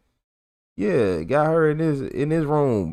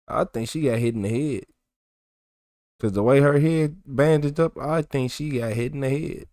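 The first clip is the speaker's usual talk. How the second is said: muttering quietly; 7 dB quieter than usual. Real, not acted. Muttered side commentary.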